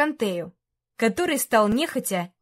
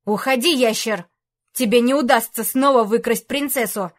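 through gritted teeth; 4 dB louder than usual. Acted. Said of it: "Сквозь зубы проговорил рыцарь".

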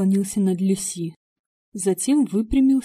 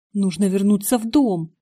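impatient; 5 dB louder than usual. A narrator's reading. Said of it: "нетерпеливо сказала я".

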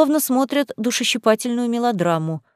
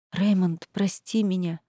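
soft, despairing apology; quiet, hopeless plea to her prince; desperate whisper-like plea; 6 dB quieter than usual. A narrator's reading. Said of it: "прошептала я в отчаянии". (тихо и в отчаянии просит прощения)

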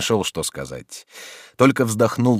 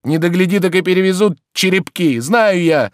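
loud, high, ever more forceful; growing insistence; 12 semitones higher, 7 dB louder than usual. Acted. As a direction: build conviction line by line. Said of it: "с возрастающей убедительностью".

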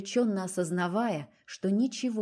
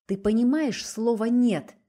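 higher, louder desperate outcry; a desperate louder shout; desperate cry; 4 semitones higher, 7 dB louder than usual. A narrator's reading. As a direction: shout it in despair. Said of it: "отчаянно выкрикнула Настя".

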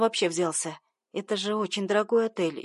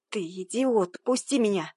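growl. Acted. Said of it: "рыкнула я".

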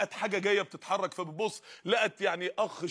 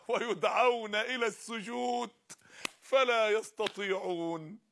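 1 slow recitation; much slower than usual. Shown as a demonstration. Slow Quran recitation vs plain quote.

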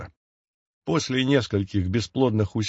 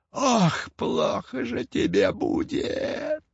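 high, slow, softer creaking witch's curse; creaky hag; 11 semitones higher, 4 dB quieter, much slower than usual. A narrator's reading. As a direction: croak out the curse like an old crone. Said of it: "скрипучим голосом пообещала Яга". (скрипучий голос ведьмы)

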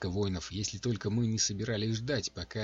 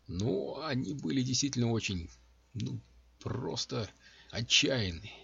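soft; 3 semitones higher than usual. A narrator's reading. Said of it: "мягко сказал Калла".

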